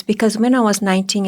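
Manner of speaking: normal talking voice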